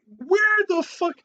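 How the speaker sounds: drawn out, high and loud, baffled; incredulous outburst. Real, not acted. Reading the article's claim, disbelieving high slow outburst. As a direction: stretch it out in disbelief.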